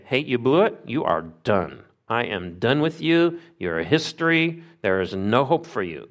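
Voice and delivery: acted dismissal, pitch jumping up and dropping; mock condemnation. What God didn't say to Cain, mock condemning. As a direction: write them off in short emphatic verdicts. Rebuke God did not give.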